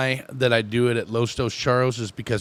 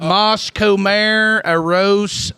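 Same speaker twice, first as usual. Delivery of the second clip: put-on Spanglish accent; 6 semitones higher, 6 dB louder, much slower than usual. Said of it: "saying English words with a Spanglish accent".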